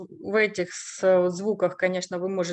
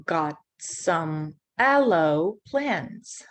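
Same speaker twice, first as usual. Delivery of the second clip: slow; 2 semitones lower, slower than usual. Shown as a demonstration. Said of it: "My brother got some aloe plants".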